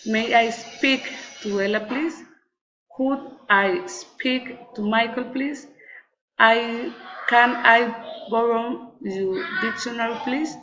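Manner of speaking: polite requests climbing up on "please"; rising intonation. Shown as a demonstration. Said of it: "rising intonation".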